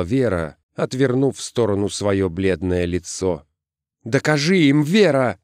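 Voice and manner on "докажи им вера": high, urgent appeal; pleading. A narrator's reading. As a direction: beg her to prove herself. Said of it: "взмолился он".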